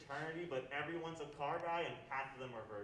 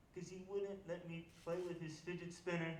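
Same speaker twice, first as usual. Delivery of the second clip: lightly voiced higher child; imitated little kid; 4 semitones higher than usual. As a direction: explain it as a small kid would. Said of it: "points to this other kid's".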